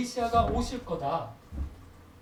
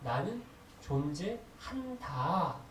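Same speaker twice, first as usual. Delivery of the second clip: very slow; 3 semitones lower, 4 dB quieter, much slower than usual. Shown as a demonstration. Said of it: "이게 어디에 나온 말씀인가 하면".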